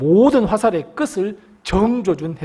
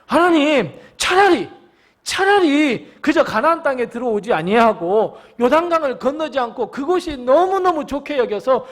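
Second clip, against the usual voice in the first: much higher pitched, pleading whine on 차라리; bitter complaint to God; 7 semitones higher than usual. Acted. Israelites wishing they had stayed put, a high whining plea. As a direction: wish aloud you had never crossed the Jordan. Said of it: "여호수아의 이 원망이 이스라엘 백성의 원망과 똑같습니다".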